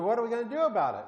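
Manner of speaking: high, loud and fast; panicked question. Retold or imitated. Sailors desperate in the storm, asking Jonah, panicked and fast. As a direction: blurt it out in a panic. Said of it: "They said".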